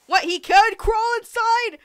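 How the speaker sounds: high, slow incredulous shriek; shocked squeal. Real, not acted. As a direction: squeal it in disbelief. Mock astonishment at the text.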